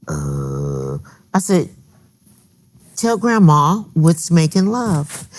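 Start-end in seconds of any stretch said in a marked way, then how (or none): 3.0-5.3 slow, gentle coaxing grandma voice; a sweet grandma asking a child. Retold or imitated. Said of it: "'cause that's my grandma voice".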